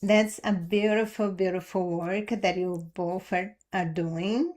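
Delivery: talking through hiccups; hiccuping. Real, not acted. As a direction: hiccups breaking the words. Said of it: "I'm hiccuping".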